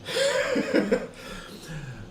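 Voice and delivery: burst of laughter. Real, not acted. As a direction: crack up at the roll. Laughing at the stealth roll.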